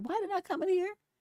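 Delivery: confused, baffled, high-pitched voice. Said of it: "Then I'm like".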